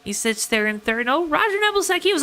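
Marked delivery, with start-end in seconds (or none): 1.1-2.2 sudden high excited call. Real, not acted. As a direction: pitch jumps up on the name. Driver surges up the order.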